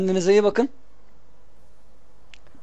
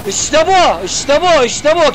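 excited cheering; 4 semitones higher, much slower than usual. Real, not acted. Celebrating a goal.

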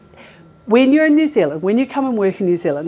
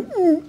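mock nauseous groan; 11 semitones higher than usual. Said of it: "like that".

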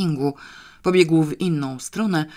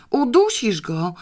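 high, slow scream; girl screaming so her dad won't choke the dog; terrible scream; 8 semitones higher than usual. A narrator's reading. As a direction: shriek it at her father in horror. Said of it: "wrzasnęła Janeczka okropnie".

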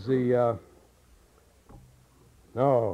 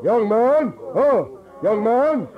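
a touch higher, round and open on the vowels; open yawn voice; 4 semitones higher, slower than usual. Shown as a demonstration. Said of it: "everybody open that yawn".

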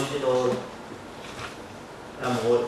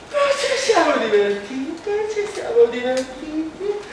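gushing mother; 6 semitones higher than usual. Acted. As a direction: gush about the day out. Mother voiced returning. (mamma entusiasta, voce più acuta)

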